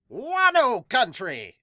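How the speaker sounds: slow, high, loud exclaim; excited awe. Real, not acted. Gamer marvelling at Wano country, slow excited cry. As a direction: savour it with delight.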